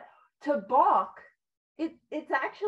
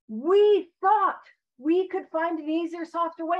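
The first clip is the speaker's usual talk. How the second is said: meant inflection; 2 semitones higher, 6 dB louder than usual. Shown as a demonstration. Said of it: "read it with the inflection that I feel like it was meant to be read".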